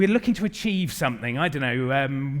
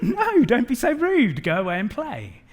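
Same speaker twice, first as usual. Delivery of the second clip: mock stern dad; 6 semitones higher, 4 dB louder than usual. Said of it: "And I'm like".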